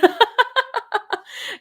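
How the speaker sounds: a burst of high laughter; laughing. Real, not acted. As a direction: laugh at your own bit. Laughs at own voice.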